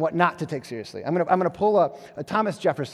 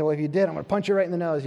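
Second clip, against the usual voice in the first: fast joking threat; much faster than usual. Retold or imitated. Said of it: "I said".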